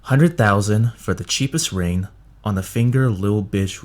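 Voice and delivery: clear, deliberate enunciation; patient, carefully enunciated teaching. Shown as a demonstration. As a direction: spell it out slowly for a student. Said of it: "I'll say it a little bit slower".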